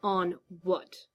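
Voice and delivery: gritted-teeth retort, level; through gritted teeth. Acted. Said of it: "Arthur gritted out".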